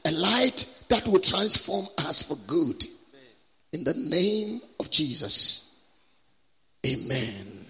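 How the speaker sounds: measured prayer swelling to a loud plea, then settling; public prayer. Real, not acted. Preacher prays for an encounter tonight, fervent prayer. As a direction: call out to God, then drop on the amen.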